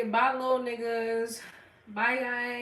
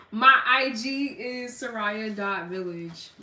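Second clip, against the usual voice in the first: slow, giggling through it; laughing slowly; 3 dB louder, slower than usual. Real, not acted. Streamer gives her handle to chat, laughing. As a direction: say it while still laughing.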